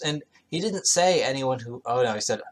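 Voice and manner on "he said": normal talking voice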